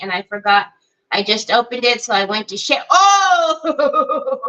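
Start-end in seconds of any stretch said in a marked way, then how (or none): 2.9-4.4 sudden laughing gasp; startled oh with a laugh. Real, not acted. Paint nearly spills.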